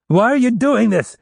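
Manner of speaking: panicked wail. Acted. Captive son pleads with the gunman, panicked wail. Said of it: "Rapp wailed in a panicked voice".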